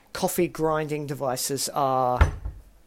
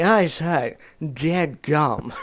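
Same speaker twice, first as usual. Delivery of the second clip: light mock posh British accent; a hint of haughty British toff; hoity-toity British accent; much slower than usual. Mother and son playing posh British over coffee. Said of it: "acting all hoity-toity".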